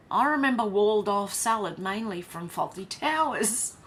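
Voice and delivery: loud, laughing recall. Real, not acted. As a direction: talk through a laugh.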